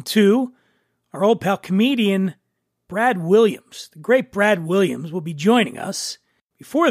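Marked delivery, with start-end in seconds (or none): none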